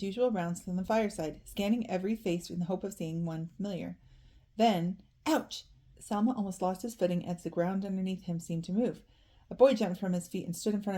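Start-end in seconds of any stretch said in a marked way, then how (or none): 5.2-5.6 a startled little yelp of pain. A narrator's reading. Narrator voices a boy who nearly falls, pained yelp. Sudden pain as footing slips.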